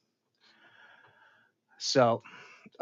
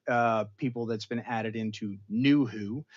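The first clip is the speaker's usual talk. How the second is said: ordinary talk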